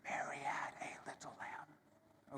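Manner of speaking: slow, soft unvoiced whisper. Shown as a demonstration. Teacher slowly whispering the rhyme for students. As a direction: whisper it slowly, all breath. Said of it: "but saying it as a whisper".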